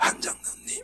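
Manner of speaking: mock barely-there hoarse voice. Retelling how someone who lost their voice spoke, imitating a hoarse, barely-there voice. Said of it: "목소리가 안 나와요. 제가 말, 최대한 따라해 볼게요".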